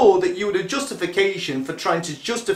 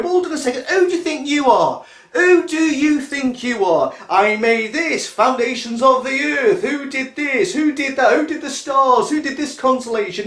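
booming God voice; 4 semitones higher than usual. Retold or imitated. God thundering at Job, raised and boastful. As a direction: puff up like an indignant deity. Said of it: "then starts to say to Job".

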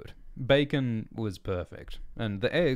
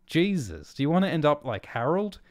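loud, high, fast outburst; too loud; 9 semitones higher, 8 dB louder, faster than usual. A narrator's reading. Erling blurting at Bell in the diner, too loud. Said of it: "He was too loud".

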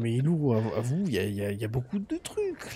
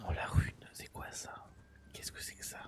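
scared horror game streamer; 12 dB quieter than usual. Real, not acted. Creeping up on unknown object.

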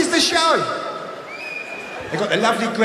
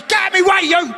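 hammed-up Greg shouting; 10 semitones higher, faster than usual. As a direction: play Greg as a furious hyped TV host. Greg barging in.

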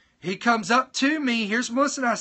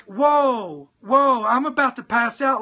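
half-acted panic, a touch louder; breathless retold alarm; freaking out; 3 dB louder, slower than usual. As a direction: replay the shock of nearly fainting. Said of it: "I'm freaking out".

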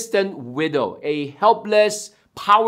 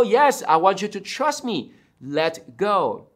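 calm God. Acted. God asks frightened man to trust, calm voice. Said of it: "and God said".

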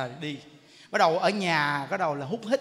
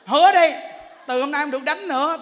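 louder, higher insistence; a wife demanding a promise, raised voice; 6 semitones higher, 9 dB louder than usual. Retold or imitated. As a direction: make him promise, loudly.

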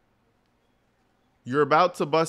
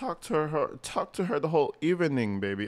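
imitating the girlfriend. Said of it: "I love how she says evening".

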